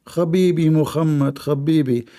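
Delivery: donkey in broken Arabic accent, lightly voiced. Donkey knocks calling the Prophet, broken Arabic accent. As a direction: call through the door in broken Arabic accent. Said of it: "he speak like a broken, uh, Arabic".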